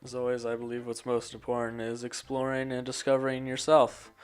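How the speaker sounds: monotone voice. Acted. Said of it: "I hope you guys like my monotone voice".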